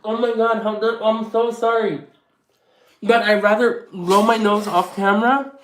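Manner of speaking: high embarrassed apology; flustered oh my God. Real, not acted. Vlogger apologises to viewers after nose wipe, flustered.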